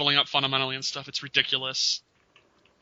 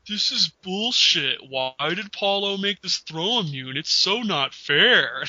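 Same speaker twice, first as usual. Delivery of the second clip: mock whining; 3 semitones higher, slower than usual. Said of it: "he'll be like".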